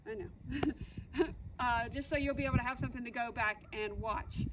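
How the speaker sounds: real tears breaking through, half-laughing; getting emotional saying goodbye to the puppy; a little choked up, soft and tearful. Real, not acted.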